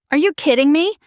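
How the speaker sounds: wife snapping at her husband on the couch; snapped. Acted. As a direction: bite it out in disbelief. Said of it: "I snapped".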